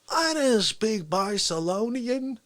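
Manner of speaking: slow, flat put-on voice; Fauci excuse. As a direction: deliver the dumb excuse straight. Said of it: "get this one".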